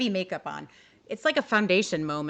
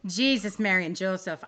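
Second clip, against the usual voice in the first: put-on Irish accent. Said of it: "That, that was very Irish".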